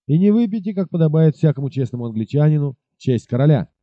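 a swaggering officer barking threats; bully the stranger into drinking the toast; angry captain voice. Acted. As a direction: arrogant soldier, menacing and indignant.

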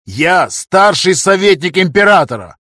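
loud, slow, high proclamation of rank; pompous shout. A narrator's reading. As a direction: pull rank at full volume. Councillor asserting rank.

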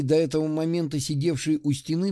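ordinary delivery, nothing marked

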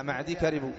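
معدي with a still, long ee ending; ya left unvowelled. Shown as a demonstration. Teacher showing students the silent ya, معدي ending in plain ee. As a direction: say معدي كربوا with no vowel on the ya. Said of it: "سكن الياء".

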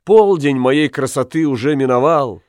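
rueful. Acted. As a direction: sigh it out lightly. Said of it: "сказала та".

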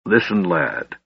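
calm after an outburst; calmer. A narrator's reading. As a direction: settle down and speak calmly, pitched low. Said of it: "Flint said more calmly".

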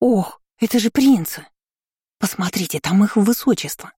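put-on giddy girlish gushing; cackling excitement. A narrator's reading. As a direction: gush over the princes like a silly girl. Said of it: "Аристократки закудахтали".

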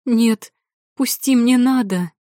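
high desperate shriek. Acted. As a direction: squeal to break free. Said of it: "верещала девушка".

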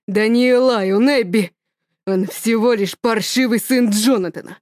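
father correcting wife, angry. Acted. (громко, резко)

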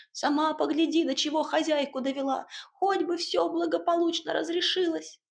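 a bustling little house spirit giving orders. Acted.

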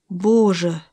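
usual speaking voice

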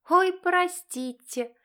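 high, very slow fake sorry; drawn-out sarcastic apology; mock apology. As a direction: insincere theatrical oops.

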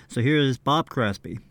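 ordinary talk

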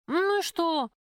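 high, sharp "so what"; a hard, careless retort; dismissive snap. A narrator's reading. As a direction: brush off his worry. Heroine snaps at driver.

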